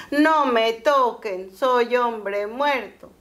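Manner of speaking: slow, drawn-out voice of a lazy son faking death; mock-dying plea, very slow; playing dead. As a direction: drag every word out like a dying man.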